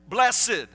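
BLESSED said in two syllables, bless-ed; two-syllable pronunciation. Shown as a demonstration. Preacher supplies the word to the congregation, two-syllable "blessed". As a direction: sound out the ED in "blessed" as its own syllable. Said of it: "we tend to say blessed".

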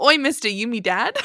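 lightly put-on British accent; bad British accent. Host returning to the joke, bad British accent. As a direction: toss it off in mock British. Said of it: "do a bad British accent".

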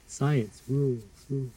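"Science rules" with echoing repeat; echo effect. Shown as a demonstration. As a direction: call it out into an echo. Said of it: "I can do the fancy echo effect".

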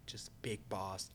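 hushed mocking whisper. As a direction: breathe it out as a secret. Whispered joke reply.

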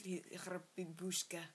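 unvoiced whispered aside; whispering. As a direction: whisper it conspiratorially.

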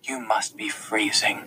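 soft, slow motherly concern; a hint of a caring mother, hushed and slow; mom voice. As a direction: fuss over him gently like a mom. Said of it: "And in a mom voice".

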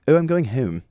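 twangy South Jersey long O in "Oh" and "home"; South Jersey accent. Shown as a demonstration. Imitating how South Jersey people say "Oh" and "home", long-vowelled South Jersey accent. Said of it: "The way I just said O like that".

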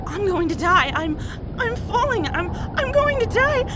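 very high, crying in panic; sobbing terror. Acted. Woman in free fall with no parachute, sobbing in terror. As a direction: break down as she falls. Falling, chute fails.

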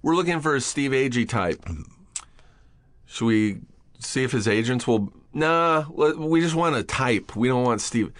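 lightly voiced casting agents; casting people shrugging off Steve; mock casting people. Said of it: "that you're like".

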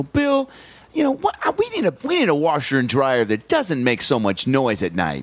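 bright overacted ad voice; hammy radio ad wife. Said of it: "the coupley ones are just like".

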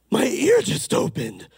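high, slow, awestruck imitation; amazed. Preacher imitating a deaf lady suddenly hearing, amazed. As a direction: marvel in a put-on high voice.

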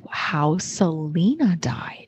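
titillated. Real, not acted. Hushed morbid reveal.

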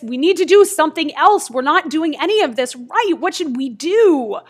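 rushed, mock-panicked fretting; flustered. Grandmother and girl fret over what to do, flustered.

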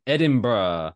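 badly faked Scottish accent; a clumsy stab at Scottish; terrible Scottish accent. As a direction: attempt a hammy Scottish place name. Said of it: "That's just a terrible Scottish accent".

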